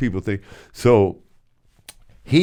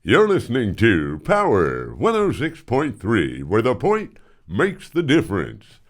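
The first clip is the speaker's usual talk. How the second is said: lightly voiced radio jingle read; a touch of a smooth DJ delivery; imitating the program director's on-air voice; imitating Rick Stevens; 3 semitones higher than usual. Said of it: "this is literally how he sounded".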